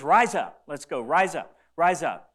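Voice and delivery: rally them to their feet; strong commanding call; rousing call. Acted. Jesus rousing disciples, forcefully.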